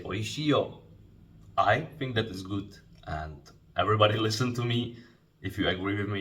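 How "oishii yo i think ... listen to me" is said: assertive. Shown as a demonstration. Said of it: "When you say".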